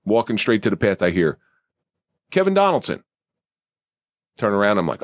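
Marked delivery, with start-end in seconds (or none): 2.3-3.0 calling out a name. Retold or imitated. Stranger calls his name in street.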